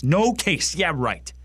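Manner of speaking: high, indignant exclamation dropping into sarcasm; scornful outburst. Acted. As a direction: spit the phrase back in disbelief. Acted monologue, scornful echo.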